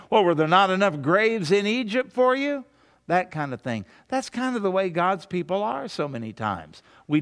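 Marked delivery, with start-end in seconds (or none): 0.1-2.6 sarcastic. Retold or imitated. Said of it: "sarcastic and cutting".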